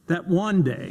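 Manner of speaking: That one day with weight on one; cadenced pause. Shown as a demonstration. Speaker imitating King's speech rhythm. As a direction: hold the pause, then land on one. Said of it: "And then he pauses".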